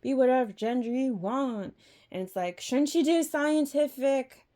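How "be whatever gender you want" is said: high, fast, airy mock-breezy voice; sing-song mock approval; mocking society. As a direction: parody a careless crowd saying anything goes. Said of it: "everyone in society is like".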